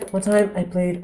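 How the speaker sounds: softly spoken mock actor; hushed celebrity impression; Jesse Eisenberg. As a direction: keep the volume down in character. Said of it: "you gotta whisper".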